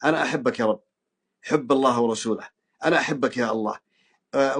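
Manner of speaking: تضرع هادئ يطلب الشفاء; صوت خافت راجٍ عند تكفى يا ربي; مناجاة متضرعة. Shown as a demonstration. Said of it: "تقول لله سبحانه وتعالى". (مريض يناجي ربه بتضرع خاشع)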